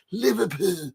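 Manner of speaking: badly faked Scouse; failed Liverpool accent. Shown as a demonstration. Fan trying to mimic Liverpool fans, failed Scouse accent. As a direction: have a poor go at a Liverpool accent. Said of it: "teach me how to do a Liverpool accent".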